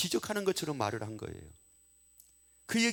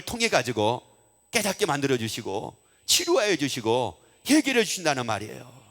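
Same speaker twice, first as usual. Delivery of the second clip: insistent, rallying pulpit exhortation; preacher driving the point home; forceful preaching; 5 dB louder than usual. Real, not acted. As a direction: urge the congregation on, hammering each repeated phrase.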